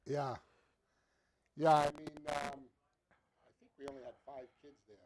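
crackly, distorted audio line; clipping distorted mic. Real, not acted. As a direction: speak through a crackling mic. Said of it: "They said that your audio is crackling".

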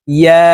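ইয়া voiced from the middle of the tongue; letter ya demo. Shown as a demonstration. Teacher shows viewers the ইয়া sound from mid-tongue. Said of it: "ইয়া হরফের উচ্চারণ জিহ্বার মধ্যখান থেকে".

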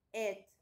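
"Et" as a short separate syllable. Shown as a demonstration. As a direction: sound out "Et" on its own. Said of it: "se lo pronuncia como un et".

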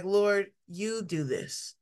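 a gentle modeled prayer of surrender. Shown as a demonstration. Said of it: "You have to just be like".

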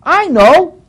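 lampoon the showy cross-carrier; mocking zealot. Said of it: "So you get these silly ideas that".

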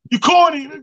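high, loud heckler yell from the back; mock heckle shouted across the room. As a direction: yell it out at the stage. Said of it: "somebody yell out something like".

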